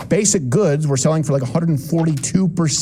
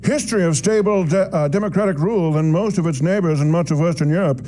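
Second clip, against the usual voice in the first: nerd voice. Acted. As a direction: read it like a prim nerd. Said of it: "Doing a nerd voice".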